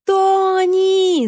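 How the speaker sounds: put-on high shrieking child's call; child yelling. Greyden yells for Toni, high child's shout. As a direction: yell for her like a desperate little boy. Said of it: "завопил Грейден".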